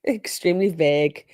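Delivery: "vague" copied with a short eh, like veg; American "vague". Retold or imitated. Host echoing the witness's answer, American-style "vague". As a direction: echo his American "vague", vowel short. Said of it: "y'all say vague".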